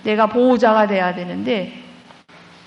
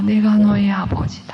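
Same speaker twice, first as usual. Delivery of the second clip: spoken aloud with weight on "너의"; firm, full-voiced "내가 너의 아버지다"; declared plainly as God; voiced divine words. God's voice speaks, then repeated.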